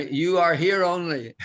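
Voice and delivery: a light Indian English lilt on "You are here only"; hint of Indian English, final "only" stressed. Teacher imitating Indian English to explain the particle, mild accent. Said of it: "if you think Indian English".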